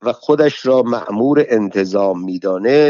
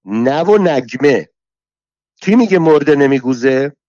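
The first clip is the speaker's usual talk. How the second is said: shouting; 3 semitones higher than usual. Acted. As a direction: yell it across the courtyard. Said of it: "علویه داد زد".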